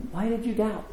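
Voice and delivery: high, gentle coaxing question. Retold or imitated. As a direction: ask it kindly, pitched well up. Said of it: "which is a little softer".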